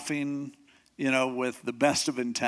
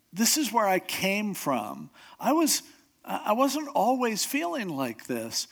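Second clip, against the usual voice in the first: wistful remembering; 4 semitones higher than usual. Retold or imitated. Psalmist recalling better days.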